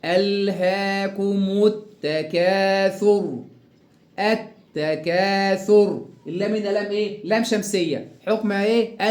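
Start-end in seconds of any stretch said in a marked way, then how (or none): 0.1-3.4 ألهاكم التكاثر with long drawn vowels and doubled t; slow recitation. Shown as a demonstration. Teacher shows how it is read, slow recitation. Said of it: "كيف نقرأ هكذا". 4.2-6.1 التكاثر slowly, doubled t and long aa; slow recitation. Shown as a demonstration. Teacher shows how it is read, slow recitation. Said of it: "كيف نقرأ هكذا".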